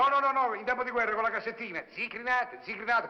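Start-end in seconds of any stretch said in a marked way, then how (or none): 0.0-0.5 raised, higher no, no, no, no; cutting in loudly during the argument; loud protest. Acted. Heated quarrel over the bill. 1.9-3.1 street vendor cry. Retold or imitated. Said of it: "con la sua voce nei timpani".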